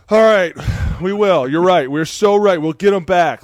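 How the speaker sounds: high, eager agreement; mock calmed player. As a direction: go along with it, pumped up. Player mollified by coach.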